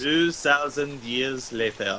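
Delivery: slow French-style title card narrator; SpongeBob narrator voice. Pretend. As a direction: drawl it like a cartoon time card. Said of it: "that voice from SpongeBob".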